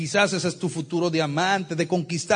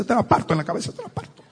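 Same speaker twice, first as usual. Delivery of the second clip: threatening wife; 3 semitones higher, faster than usual. Acted. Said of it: "agarraba una botella y le decía".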